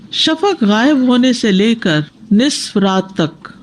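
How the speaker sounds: slow, spaced out for notes; teacher dictating the time of Isha; slow dictation. Shown as a demonstration. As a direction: say it slowly so students can write. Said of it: "teacher dictating prayer time".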